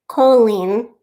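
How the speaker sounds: "Colleen" with a long O, like coal-een; "Colleen" with a round oh up front; long O pronunciation. Shown as a demonstration. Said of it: "that's how you're supposed to s-, say her name".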